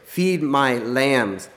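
slow command. Retold or imitated. Jesus' command to Peter.

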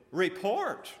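high, loud, abrupt order; barked command. A narrator's reading. Prince to his silent demons, barked. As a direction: demand it like an angry ruler. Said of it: "barked the prince".

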